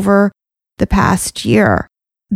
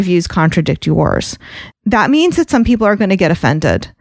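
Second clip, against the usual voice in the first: shaky voice. Real, not acted. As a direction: voice shaking with nerves. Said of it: "You can hear my voice shaking".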